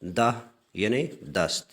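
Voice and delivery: دہ said slowly as "dah", then دس; slow careful pair. Shown as a demonstration. Teacher slowly pairs Persian دہ with Urdu دس. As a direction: space the words out carefully. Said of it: "دال کے اوپر آپ زبر پڑھیں گے".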